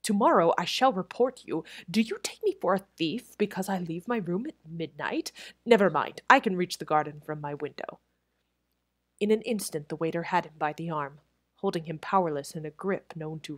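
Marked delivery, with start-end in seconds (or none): 0.0-8.0 louder, indignant threat; angry threat. Acted. Crutchley threatening the head waiter, indignant. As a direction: put him in his place, indignant.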